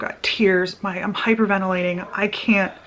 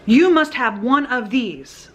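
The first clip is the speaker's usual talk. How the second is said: slow, higher, insistent order; retold yelling; 5 semitones higher, 4 dB louder, slower than usual. Store man confronting an unmasked customer, mock yelling. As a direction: imitate a man's stern demand, stretched out. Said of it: "Like, yelling at me".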